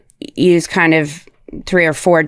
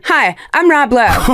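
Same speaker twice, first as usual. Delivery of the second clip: Rob Lowe; 5 semitones higher, slower than usual. Retold or imitated. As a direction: kid imitating an ad spokesman. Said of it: "he'll be like, he runs in my room".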